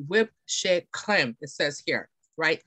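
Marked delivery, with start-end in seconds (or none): 0.1-1.4 slow French-accented WHIPPED SHEA CREME. Shown as a demonstration. Presenter showing customers the yummier product name, French accent. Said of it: "pronounce it with the French accent".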